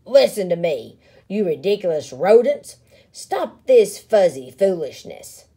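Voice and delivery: loud angry scolding; scolding bully. Acted. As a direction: bark orders at the rodents. Big Bark scolding crowd.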